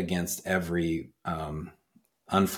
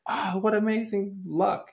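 excited neighbors. Retold or imitated. Neighbors voiced in parable.

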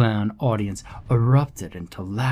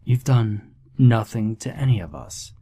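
giggly sinister sing-song. Acted. Sinister clown explains his test.

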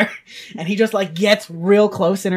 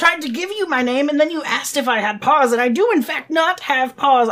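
higher, mildly indignant protest; lightly huffy, raised-pitch retort; indignant self-defense; 5 semitones higher, 4 dB louder than usual. Acted. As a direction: protest with wounded dignity. Doctor indignantly defends himself.

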